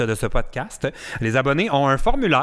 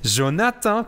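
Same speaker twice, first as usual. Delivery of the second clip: a higher, playful punchline; mimicking the meme kid, lightly; 8 semitones higher, slower than usual. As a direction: toss out the name like the viral kid. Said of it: "il y a comme un remix total".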